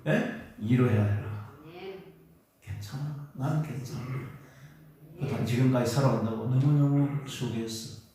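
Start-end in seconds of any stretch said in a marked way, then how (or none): 2.6-8.0 tender self-comfort. Shown as a demonstration. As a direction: speak gently to your own weary heart. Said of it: "자, 여러분 이름 부르며 해보세요". (자기 이름을 부르며 다정하게 위로하듯)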